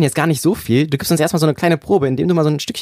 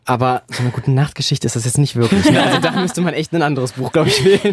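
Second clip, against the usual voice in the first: laughing. Real, not acted. Host laughs about bedtime story.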